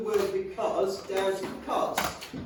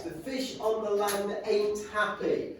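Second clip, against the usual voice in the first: slow careful reading; slower than usual. Shown as a demonstration. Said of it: "teacher repeats dialect line slowly".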